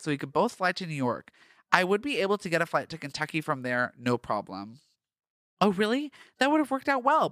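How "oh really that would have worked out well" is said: higher and louder, fake amazement; mock surprise. A narrator's reading. Parker feigning surprise at Josh's news, mock surprised. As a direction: put on a show of being surprised. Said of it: "Parker said in mock surprise".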